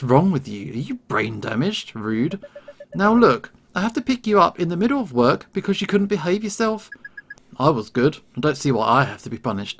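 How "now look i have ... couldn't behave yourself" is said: angry scolding. Acted. Dad scolding angrily.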